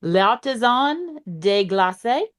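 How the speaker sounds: slow French name in a thick Southern drawl; deep south accent. Real, not acted. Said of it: "I just have a very thick Southern accent".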